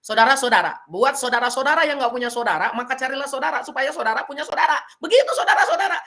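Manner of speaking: teacher parodying a speaker who overuses saudara; repetitive speechmaker. Shown as a demonstration. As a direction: ham up a rambling speech full of saudara. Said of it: "Contoh gini nih".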